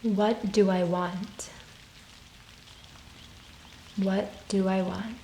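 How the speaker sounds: calm, unhurried meditation voice with long pauses; guided meditation. Real, not acted. Yoga teacher guiding listeners through soul questions, calm meditation voice. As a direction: gently guide them inward, leaving space after each phrase.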